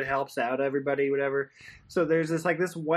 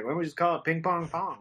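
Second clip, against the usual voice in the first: mock racist cowboy; faster than usual. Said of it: "some racist cowboy guy in Vegas was like".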